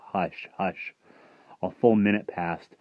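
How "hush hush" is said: soft hush, hush; quiet it down gently. Acted. Someone downstairs hushes the dog, soft.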